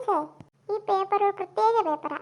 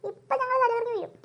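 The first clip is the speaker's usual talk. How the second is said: mock whimper; 3 semitones higher than usual. Nervous students awaiting marks.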